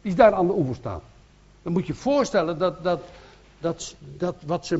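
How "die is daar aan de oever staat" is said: much higher, louder, quick at the end; urgently telling Peter it is the master; eager disciple calling to Petrus; excited disciple. Acted. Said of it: "zei tot Petrus".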